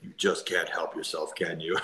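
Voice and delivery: put-on a light, slowed Slovak accent; lightly imitating a big Slovak accent. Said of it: "like, big Slovak accent".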